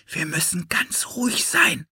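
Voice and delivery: urgent hushed whisper. A narrator's reading. Philipp hushes Anne as a light approaches, whispering. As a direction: whisper a warning to stay hidden. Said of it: "flüsterte Philipp".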